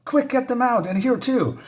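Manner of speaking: high, urgent mock shouts; retold shouting. Panicking onlookers point out others going in, high urgent calls. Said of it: "they're shouting".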